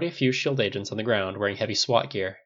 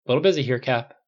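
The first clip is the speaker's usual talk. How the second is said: distracted, brusque; 3 semitones higher, 6 dB louder than usual. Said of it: "typing furiously".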